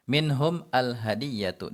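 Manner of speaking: minhum al hadiyatu said slowly, minhum kept apart; slow separate reading. Shown as a demonstration. Teacher gives the original unlinked phrase. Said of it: "Awalnya minhum".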